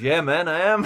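laughing, easy yes; amused admission. Retold or imitated. A singer admitting who he is, laughing. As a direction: admit it through a chuckle.

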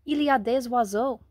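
blurted out loud in French; tumbling out in a rush of excitement; boy telling the housekeeper about birds, loud and thrilled; excited French. Acted. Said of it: "In his excitement".

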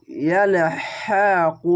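ইয়ালহাকু said very slowly, with a clear হ; slow drawn recitation. Shown as a demonstration. Teacher demonstrates how ইয়ালহাকু should sound. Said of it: "এরকম sound প্রথমে বের হবে".

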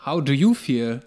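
slow, wooden English line reading; mock a bad actor reading English; stilted actor voice.

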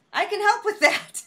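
cheery waitress pitch line; bright pitch. Pretend. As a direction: sell it with a grin. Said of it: "you know when you're just".

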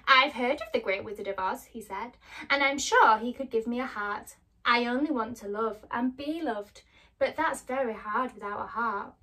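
a hint of the longing Tin Man; gentle Tin Man. Tin Man tells Dorothy he wants a heart, lightly voiced.

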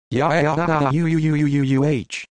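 high, squeaky mock moans in a British accent-free yelp; mock moaning. Retelling a porn scene, imitating the woman's high moans. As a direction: imitate a high silly fish-like moan. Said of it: "moaned like the high surfer fish from SpongeBob".

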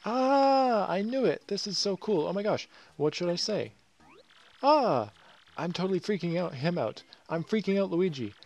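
high, loud squealing fan voice; starstruck fan freaking out. Acted. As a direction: gush in a giddy panic at meeting your idol. Fan character meets idol Luigi.

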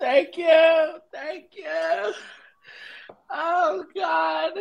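mock sobbing thank you; fake-cry through the thanks; teary acceptance speech. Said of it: "acceptance speech".

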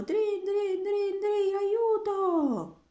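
high, loud panicked cry; shouting for help. Acted. Roberto overwhelmed by the hares, crying out loud and high. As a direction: yell it out over the ringing. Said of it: "urlò Roberto".

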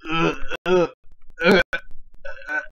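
short mock grunts of disgust; imitated disgusted grunts. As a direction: grunt in spaced bursts, mimicking his reaction. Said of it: "the dude just looks at her like".

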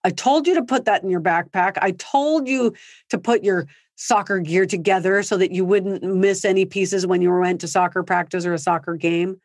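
a touch of annoyed lecturing; mild mock anger. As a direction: nag like a fed-up parent. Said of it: "because we're so mad".

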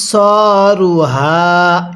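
slow recitation, "হা" voiced in the throat; drawn-out "সরু হা" with throat-made h; throaty round ha. Shown as a demonstration. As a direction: give "হা" a little throat sound, held long. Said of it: "গোল হাগুলো উচ্চারণ করার সময় গলার মধ্যে একটু আওয়াজ করলে".

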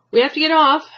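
Bing urging his father off the stalled car; loud. A narrator's reading. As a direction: push the words out over the noise. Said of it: "Bing said loudly in English to Ba".

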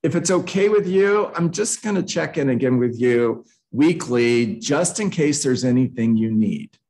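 deferential, pitch settling after the opening; apologetic. Shown as a demonstration. Agent asking to check in weekly, apologetic. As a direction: excuse yourself for checking in. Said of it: "you hear the apologetic tone in my voice".

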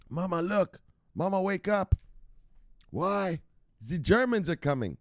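put-on high little-kid voice, urgent; a small child tugging at mama, high-pitched; kid waking mama. Skit of waking a sleeping parent.

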